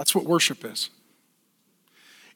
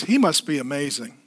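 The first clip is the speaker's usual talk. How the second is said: humble dog theology; 3 semitones lower than usual. Retold or imitated. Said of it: "dog theology says".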